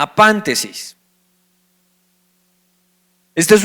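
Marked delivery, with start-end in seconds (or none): 0.0-1.0 apántesis with the accented PAN pitched high; stress on second A. Shown as a demonstration. Teacher showing the accented Greek word, stress on the PAN of apántesis. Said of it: "Así como escucha con tilde en la segunda A".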